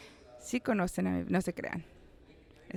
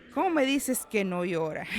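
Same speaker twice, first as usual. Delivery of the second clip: mock anger; 2 semitones higher, 3 dB louder than usual. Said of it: "lo ve con rabia".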